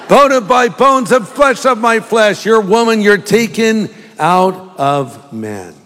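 high, declaimed verse slowing at the end; grand recitation. Acted. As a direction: recite it loftily, then draw out the ending. Recites verse after the accent demos.

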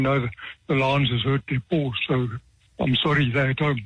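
lightly put-on Eastern Cape accent; heavy Eastern Cape accent. Mock lion tamer excusing his absent lions to kids, Eastern Cape accent. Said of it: "heaviest Eastern Cape accent".

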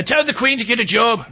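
lightly put-on Irish lilt; Irish accent. Host mimics his friend from Ireland, in an Irish accent. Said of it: "How does he talk? He talks like".

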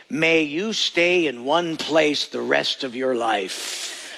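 slow, solemn curse; herder's curse. Retold or imitated. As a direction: lay the curse down slowly. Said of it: "they say".

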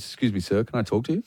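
low, quiet aside; discreet barman. Retold or imitated. Barman asks customer for a word, low and discreet.

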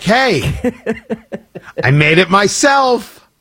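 mock-proud, drawn-out announcement; proud homemade offering. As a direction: present it slowly as your own handiwork. Host offering homemade drink to kids.

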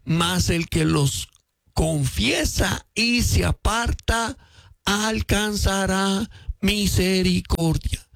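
slow, solemn scripture reading; lectura lenta y solemne. Shown as a demonstration. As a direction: draw out every word of the verse. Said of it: "Pero dice". (lectura lenta y solemne del versículo)

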